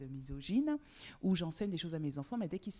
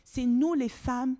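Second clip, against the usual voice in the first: angry rant; 7 semitones higher, 9 dB louder than usual. Real, not acted. Angry rant about women's role.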